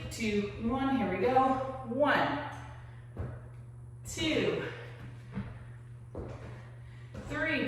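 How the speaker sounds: upbeat fitness coach cueing reps; aerobics instructor. Acted. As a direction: pump up the class, count it.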